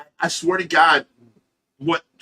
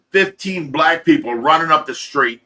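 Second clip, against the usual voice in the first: ordinary talk, nothing marked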